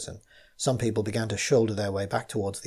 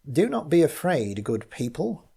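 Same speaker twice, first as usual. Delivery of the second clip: loud and clear; 5 semitones higher than usual. Acted. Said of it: "sounded loud and clear".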